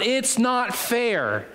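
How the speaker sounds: high, drawn-out mock protest; childish crying out. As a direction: stretch the complaint high, without shouting. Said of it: "I'm gonna cry out".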